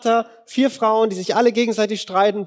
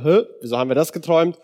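puzzled huh; 2 semitones lower, faster than usual. Retold or imitated. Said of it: "dann denken wir so".

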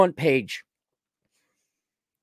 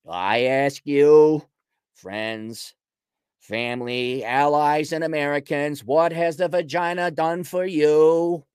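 mock political speech.

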